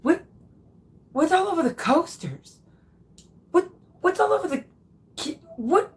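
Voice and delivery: high, puzzled mock wife voice; lightly voiced confused wife; Kat's puzzled question. Imitating the wife finding butter on the coasters, puzzled. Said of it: "she was like".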